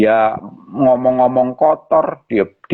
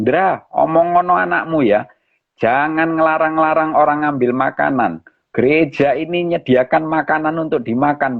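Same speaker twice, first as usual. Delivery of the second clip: mild scolding, pitched higher; retold scolding; 4 semitones higher than usual. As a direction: act out an irritated man's telling-off, without shouting. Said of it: "dia marahin saya".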